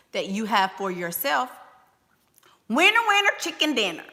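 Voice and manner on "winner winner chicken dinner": sing-song catchphrase. Real, not acted. Exclaiming catchphrase.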